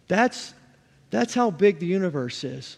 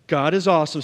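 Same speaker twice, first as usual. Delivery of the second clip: loud, firm preacher's proclamation; emphatic declaration; 6 dB louder, faster than usual. Real, not acted. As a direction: declare it boldly to the congregation. Preacher leads congregation in a declaration.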